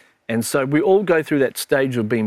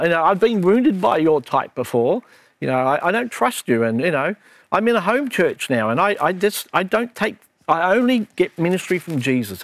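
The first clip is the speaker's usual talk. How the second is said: much higher, indignant and snooty; rising higher with each excuse; rude churchgoer voice; 6 semitones higher than usual. Retold or imitated. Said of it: "I go into this mode when I talk like this".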